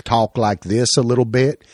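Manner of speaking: lightly put-on Texas drawl. Shown as a demonstration. Showing how British actors do Americans, Texas drawl. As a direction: demonstrate a mild Texas drawl. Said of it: "like, a Texas drawl".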